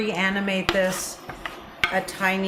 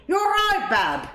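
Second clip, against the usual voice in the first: Brummie greeting, leaping high then dropping; Brummie accent; 11 semitones higher, slower than usual. Shown as a demonstration. Host showing how Birmingham sounds, in a Brummie accent. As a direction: demonstrate a lilting Brummie roll. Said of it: "it's very much like".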